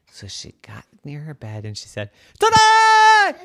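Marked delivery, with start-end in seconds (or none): 2.4-3.3 high, loud, triumphant ta-da; not quiet at all. A narrator's reading. Child shouts beside her bed despite daddy's request, loud. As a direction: blast it out, ignoring the request for quiet. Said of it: "That is not quiet".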